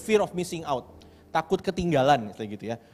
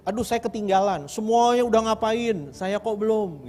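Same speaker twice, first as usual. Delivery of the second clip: mock panicky worry; 4 semitones higher, slower than usual. Voicing fear of missing out.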